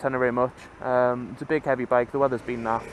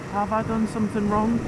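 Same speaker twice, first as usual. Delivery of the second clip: mock paranoid; 8 semitones higher than usual. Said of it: "I get that little paranoia".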